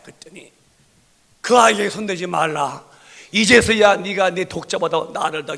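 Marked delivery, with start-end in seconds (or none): 1.4-5.6 loud, ringing divine command; commanding angel. Acted. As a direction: stop his hand with authority. Angel stops Abraham.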